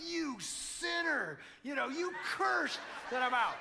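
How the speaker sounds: high, loud, laughing mock shock. Husband mimicking his shock at wife's curse. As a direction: play scandalised at her curse. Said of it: "I just looked at her like".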